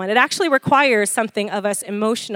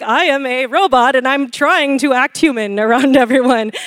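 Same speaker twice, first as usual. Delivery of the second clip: mock robot. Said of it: "I'm just like".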